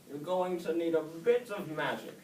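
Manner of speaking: put-on old snail questioning young Oscar; wise old snail. A narrator's reading.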